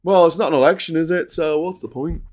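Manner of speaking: mild mock of a lazy Labour voice. Mocking Labour's excuse, mild sneering impression. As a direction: sneer out their excuse lightly. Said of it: "Labour go".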